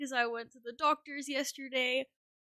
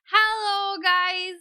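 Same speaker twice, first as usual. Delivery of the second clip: much higher, loud hello to the chat; excited greeting; 9 semitones higher, 6 dB louder, much slower than usual. Real, not acted. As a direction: call out cheerfully to everyone. Greeting stream.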